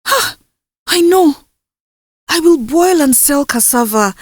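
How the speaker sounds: put-on a girl struck by a happy idea; excited idea. Indusa plans aloud, excited.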